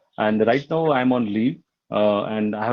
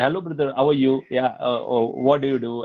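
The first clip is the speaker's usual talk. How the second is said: South Indian accent. Shown as a demonstration. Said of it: "I can talk like that also".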